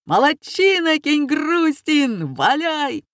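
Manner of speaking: high, loud crowd cheer; cheering shout. A narrator's reading. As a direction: egg him on from the seats.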